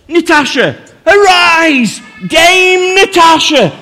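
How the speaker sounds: high, grand royal decree; solemn regal knighting. Pretend. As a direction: bestow the title like a monarch.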